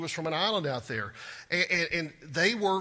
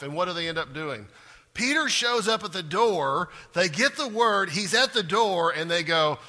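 normal talking voice

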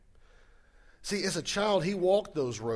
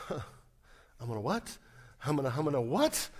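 mock disbelief. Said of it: "would be a typical response here".

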